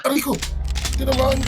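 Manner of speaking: hit hard crying out. Real, not acted. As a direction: yelp it like you got hit. Hit in game, cries out. (sigaw sa sakit)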